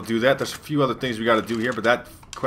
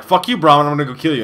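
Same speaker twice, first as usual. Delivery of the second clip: louder, higher imitation of a crazed mutant; mock angry threat; 4 semitones higher, 6 dB louder, faster than usual. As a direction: act out his outburst, half in earnest. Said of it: "And he's like".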